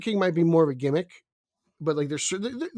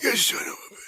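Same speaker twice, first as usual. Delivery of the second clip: higher hoarse mock-furious curse, unvoiced; 8 semitones higher than usual. Friend curses the spoiler in mock fury. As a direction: spit it out in fake rage.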